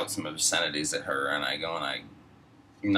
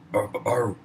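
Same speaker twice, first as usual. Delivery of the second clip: imitated charging noise; 4 semitones higher, 3 dB louder than usual.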